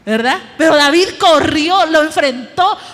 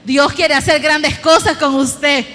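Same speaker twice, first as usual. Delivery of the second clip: preacher repeats it with a shout; shouted louder. Shown as a demonstration. Preacher repeating the line to a doubting congregation, shouted. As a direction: shout it to the church. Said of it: "Voy a decirlo de nuevo".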